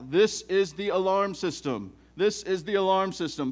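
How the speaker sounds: robotic alarm voice. Retold or imitated. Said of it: "began saying something to the effect of this".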